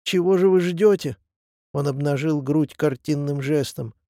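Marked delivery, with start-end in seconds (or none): 0.0-1.2 louder and higher, daring them to shoot; baring his chest, shouting at the ambushers; defiant shout. A narrator's reading. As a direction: throw the challenge at the trees. Old man dares shooters to fire.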